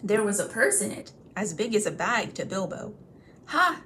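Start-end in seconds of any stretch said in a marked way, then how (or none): 3.5-3.8 a gleeful ha. Acted. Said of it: "thought he".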